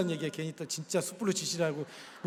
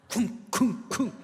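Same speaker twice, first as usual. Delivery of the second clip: imitated stomping; 4 semitones higher, much slower than usual. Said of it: "엄청난 거죠".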